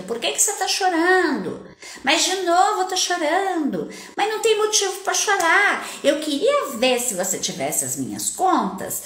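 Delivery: exasperated parental rant, pitched high; scolding parent. Acted. Parent berating a child crying without reason, mock scolding. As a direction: imitate a fed-up parent nagging a crying child. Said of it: "e aí é sem motivo e você fica".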